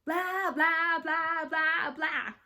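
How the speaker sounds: loud, high singsong jeer; mocking shout. A narrator's reading. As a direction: chant it loudly to drown them out. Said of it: "we shouted".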